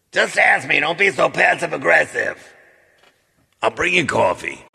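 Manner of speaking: loud, high mock-exasperated wife; mimicking wife in the morning. Husband imitates wife scolding him over coffee, loud high impression. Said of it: "That's how she sounds in the morning".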